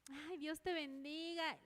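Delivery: slow, drawn-out sugary blessing; effusive blessing. Acted. Believer greeting an enemy, effusive blessing. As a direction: act out gushing goodwill, stretching the words. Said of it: "Le vamos a decir".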